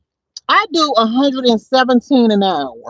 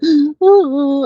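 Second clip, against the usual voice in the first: mock gasping sob; 4 semitones higher than usual. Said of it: "I wasn't crying like".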